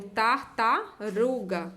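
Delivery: tartaruga with "tar" set apart first; syllable by syllable. Shown as a demonstration. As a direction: break tartaruga into careful syllables. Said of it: "eu tenho a sílaba com R".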